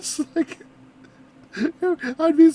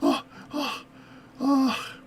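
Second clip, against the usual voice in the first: gasps that fade to relief; mock terror; 4 dB quieter, slower than usual. Reactor imagines a woman stepping out of the shower, mock terror. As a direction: pretend fright, each gasp softer. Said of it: "I'd be terrified".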